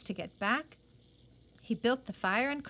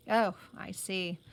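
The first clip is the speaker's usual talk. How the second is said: sour; 3 semitones lower than usual. Acted. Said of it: "said Johnny sourly".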